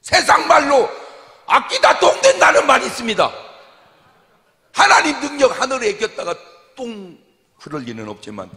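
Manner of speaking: 높고 큰 목소리로 힘차게; 회중에게 외치듯 강조. Real, not acted. 설교 절정에서 외침. (설교하며 높게 외침)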